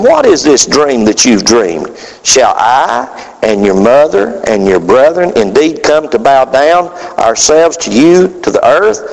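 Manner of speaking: a touch of a stern, slow father; mild rebuke. Acted. Father lightly rebuking his son over the dream, slow and stern. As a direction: rebuke the boy gently, slowly. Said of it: "his father rebuked him".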